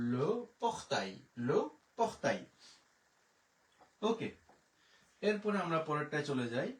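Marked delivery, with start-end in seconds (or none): 0.1-2.4 French le portail, lo por-tai; French demo. Shown as a demonstration. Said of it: "তাহলে".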